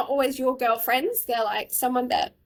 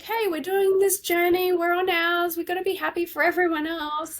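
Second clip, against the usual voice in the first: higher-pitched mock reasoning; imitated logical husband; 4 semitones higher than usual. Husband reasoning with his crying wife, lightly imitated logic. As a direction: lightly imitate a man being all logical. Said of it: "trying to be all logical".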